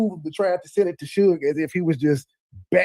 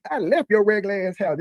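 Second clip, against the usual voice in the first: put-on higher, bratty kid sister comeback; mock sibling squabble; 5 semitones higher than usual. Mocking the feuding pair like squabbling kids, high bratty voice. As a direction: play the kid sister talking back. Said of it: "these sound like my little brothers and sisters".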